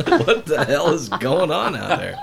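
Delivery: laughing reenactment of yelling at neighbors; mock yell. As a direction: replay the angry shout for laughs. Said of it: "you were probably screaming at the top of your lungs".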